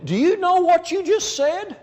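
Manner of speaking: high-pitched shocked question; acting shocked. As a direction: challenge them, aghast, voice shooting up. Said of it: "just act shocked and say".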